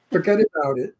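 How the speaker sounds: "forget about it" with the words kept apart; mock careful "forget about it"; imitated failed attempt. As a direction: imitate an actor missing New York "forget about it". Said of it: "No, no, no".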